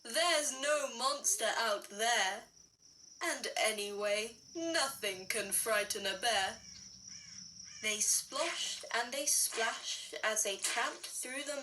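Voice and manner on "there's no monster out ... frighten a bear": low, mildly laughing father; understated amused dad; lightly voiced daddy bear. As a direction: shrug it off, lower. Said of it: "Daddy laughed".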